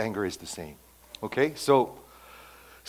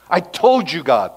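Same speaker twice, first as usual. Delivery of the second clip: smug complaint; 5 semitones higher, 9 dB louder than usual. Retold or imitated. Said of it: "which means".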